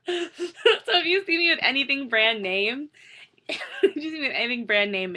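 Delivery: words broken up by high laughter; laughing. Real, not acted. Confessing to viewers her brand names are fake, laughing.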